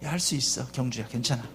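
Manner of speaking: lightly voiced, gentle divine encouragement; encouraging God. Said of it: "그래 주시거든".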